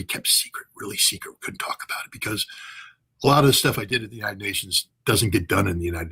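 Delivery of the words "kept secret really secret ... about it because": drops to a secret whisper. Real, not acted. Whispering about the secret gyroscope intercept. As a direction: whisper it like a secret you can't share.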